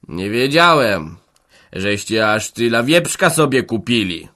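slow, snide remark from the smith. Acted. Smith taunts Hanka about the pig, snide and slow. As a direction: drawl it with a sneer. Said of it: "zaczął z przekąsem".

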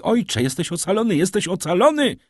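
put-on high, elated girl's cry; breathless joyful cry. A narrator's reading. Daughter tells her father he is saved, breathless joyful cry. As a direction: shout the good news, beside yourself with joy. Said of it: "krzyknęła dziewczyna niemal bez tchu, nieprzytomna z radości".

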